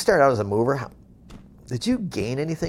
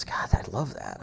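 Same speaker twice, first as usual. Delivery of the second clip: hushed awe; 5 semitones lower, 6 dB quieter than usual. Retold or imitated. Mover's awed reply, retold.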